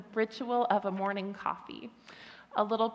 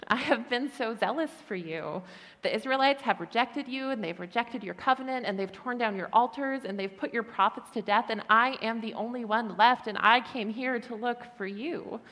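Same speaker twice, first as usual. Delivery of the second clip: raised, protesting complaint; exasperated Elijah. Retold or imitated. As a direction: plead your case, a touch indignant. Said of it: "Elijah's kind of like".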